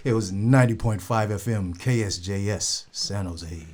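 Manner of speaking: a hint of radio announcer. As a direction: lightly announce the station call letters. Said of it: "You're good at, you're good at this".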